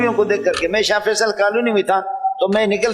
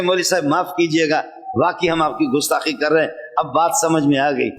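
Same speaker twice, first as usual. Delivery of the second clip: contrite man; 4 semitones lower than usual. Retold or imitated. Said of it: "ये संजीदा आदमी था, कहने लगे".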